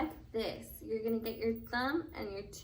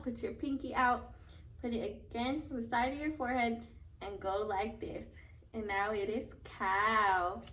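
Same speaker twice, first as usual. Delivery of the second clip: put-on reading to a toddler. Teaches sign language to toddlers.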